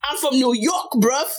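playful attempt at a New York accent; Irish speaker imitating a New York accent. Guest answers where her accent is from, mock New York accent. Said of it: "Where's that from?".

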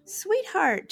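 gentle soothing to a pet. Real, not acted. Soothing the puppy.

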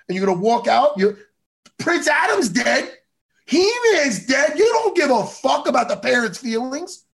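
heated scolding at a cartoon character; exasperated rant. Real, not acted. Fan berating Tila for walking out, heated exasperated scolding. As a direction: scold her like she's really there.

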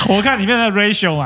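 talking through the end of a high laugh. Real, not acted. Host laughing as she explains checking the ratio. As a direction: let the laugh spill into the words.

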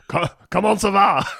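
high mock French, laughing; French accent. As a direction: Frenchman asking the head how it is. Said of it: "Do it in a French accent".

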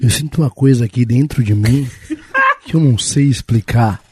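a hint of a low seductive voice with a laugh; mild mock romantic confession; sexy voice. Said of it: "Você sentiu a entonação aqui".

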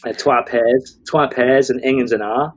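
put-on Dundonian accent saying twa pairs; Dundee accent. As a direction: mimic a thick Dundee local. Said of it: "very strong Dundonian accent".

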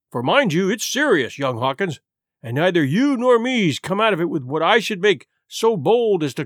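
lightly voiced jovial old seaman, chuckling; a hint of a hearty sailor rambling; old sea cook. Silver to young Hawkins, a lightly voiced hearty old seaman.

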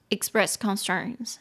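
放慢示范读 "express concerns", 重音落在 press; slow model reading. Shown as a demonstration. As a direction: say "express concerns" slowly, each syllable clear. (慢速清楚地示范 "express concerns")

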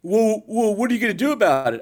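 high, challenging teen imitation; teenager. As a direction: talk back like a cocky kid. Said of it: "I see ten teenagers sitting".

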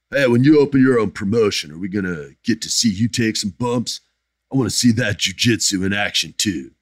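reading a fan's question in a put-on voice; Mike effin Murphy voice. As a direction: do a lightly voiced fan persona. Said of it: "This is my Mike effin Murphy voice".

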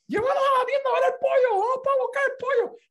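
put-on high, loud, laughing kid-like pleading; mock kids chanting for the chicken; excited begging. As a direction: beg like an overexcited child. He and kids beg mom.

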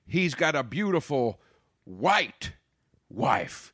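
mock speech with "white" set apart by pauses and punched; stress on white. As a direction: imitate a politician leaning hard on the word "white". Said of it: "putting an emphasis on the word white".

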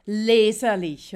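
a loud, slow, imitated bark. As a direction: bark the word slowly like the clerk. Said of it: "er hat mir dann wirklich entgegengebellt". (laut und gedehnt entgegengebellt)

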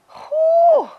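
big loud exhale, pitch jumping high; exasperated whew while retelling the arrest. Real, not acted. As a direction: blow out a sharp whew of disbelief. Overwhelmed exhale mid-sentence.

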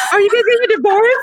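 put-on very high shouted child's voice; scared kid. Child asking fighting parents, shrill high mock kid shout. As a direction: shriek it like a frightened child. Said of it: "your kids are like".

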